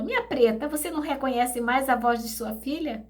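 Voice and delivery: a daughter asking to be recognised; lightly voiced daughter's plea; pleading daughter. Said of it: "Ela falou".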